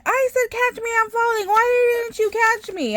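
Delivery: high, whiny mock scolding; retelling the old lady who blamed her for not catching her, high mock scold; mock angry lady. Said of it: "she's yelling at me".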